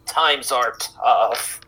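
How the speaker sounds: put-on very slow, weary old voice; weary old man. Old man leaving the group, very slow weary old voice. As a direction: sigh it out, resigned. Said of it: "shakes his head slowly and he says".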